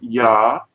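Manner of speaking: "Yahuwah" in two parts, YAH, pause, HOO-ah; demonstrated pronunciation. Shown as a demonstration. Teacher shows how they were pronouncing the name, sounded out in parts. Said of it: "they were pronouncing it".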